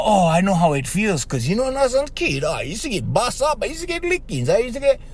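high, whiny mock of someone making it about themselves; mocking whiny consoler. Host mocking a consoler who turns grief onto himself, whiny. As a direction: pitch it up like a self-pitying know-it-all.

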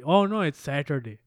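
South Asian accent on SATURDAY; brown accent. Shown as a demonstration. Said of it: "say it with a brown accent".

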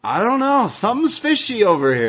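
high, hammed-up conspiratorial voice; mock suspicious. Host teasing that Stacks is the rat, mock suspicious.

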